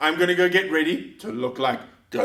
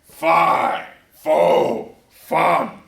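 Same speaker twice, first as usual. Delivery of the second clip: giant voice; 2 semitones lower, much slower than usual. Acted. Goliath giant voice in story.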